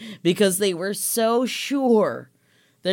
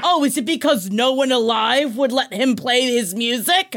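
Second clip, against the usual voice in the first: higher, mock-sarcastic questioning; imitating mad mom; 4 semitones higher than usual. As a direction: put on an indignant mother's pointed question. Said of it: "Why are you so mad?".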